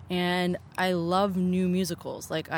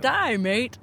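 higher, louder mock Australian "Good day, mate"; terrible Australian accent; 5 semitones higher, 5 dB louder than usual. Shown as a demonstration. Teased about her accent, a hammed Australian greeting. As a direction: ham up a bad Australian accent. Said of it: "It's a terrible accent".

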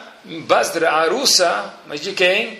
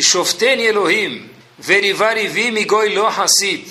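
solemn verse recital; 3 semitones higher, slower than usual. Shown as a demonstration. Reading Psalm verse slowly.

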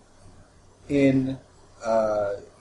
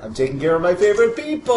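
high, chipper corporate mascot voice; beaming, over-sweet salesman; cheery spokesman; 5 semitones higher, 4 dB louder, faster than usual. Acted. Mister Smiley voice.

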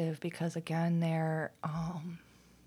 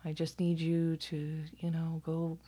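gentle apology; 3 dB quieter than usual. Retold or imitated. Mom apologizing at her son's bedroom door, gentle apology. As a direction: ease into a careful, hushed apology.

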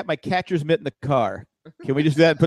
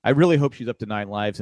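ordinary talk

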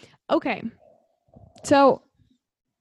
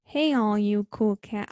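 slow, from the back of the throat; throatier Carole Baskin try; 3 dB quieter, slower than usual. Acted. Cohost retrying Carole Baskin after coaching, slow and throaty. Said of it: "feel it in the back of your throat more".

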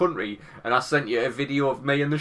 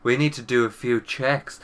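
porn nurse voice. Pretend. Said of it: "they're like".

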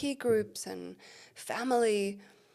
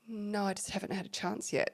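meek reply; 5 dB quieter than usual. Acted. Partner's meek reply, acted out.

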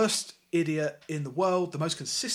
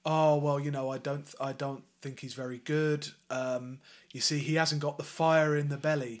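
put-on Lancashire interviewee voice; Burnley accent. Voicing an interviewee's supposed answer on Corbyn, Burnley accent. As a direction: answer lightly in a Northern English accent. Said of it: "he wrote it in a Burnley accent".

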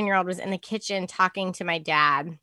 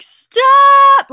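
sharp, much higher and louder cry of stop; yell; 13 dB louder than usual. Retold or imitated. Mom yelling at her son to stop. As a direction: stop him before the toothbrush reaches his mouth. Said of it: "Like, yelled at him".

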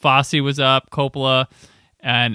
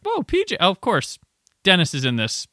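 surprised; 4 semitones higher than usual. Retold or imitated. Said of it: "I was like".

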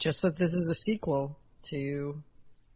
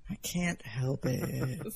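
vocal fry; 5 dB quieter, slower than usual. Real, not acted. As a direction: let the voice crackle into fry. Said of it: "Tim, stop frying".

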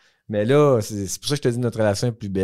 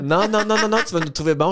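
excited; 8 semitones higher, 5 dB louder than usual. Real, not acted. Excited reassurance, teasing.

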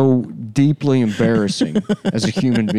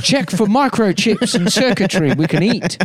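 very high, louder cockney robot urchin; urgent little robot thief, pitched way up; British child robot; 13 semitones higher, 4 dB louder than usual. Acted. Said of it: "like a British child robot".

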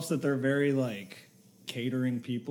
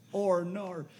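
lightly higher Australian drawn vowels; mock Australian accent; 4 semitones higher than usual. Co-host repeating a Gen Z catchphrase, mock Australian accent. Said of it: "the Gen Zs are always saying".

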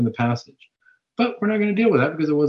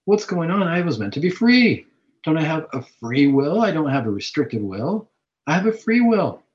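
protesting sinner; 4 semitones higher than usual. Retold or imitated. People complaining that God restricts them, petulant. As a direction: whine against the rules. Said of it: "And we say".

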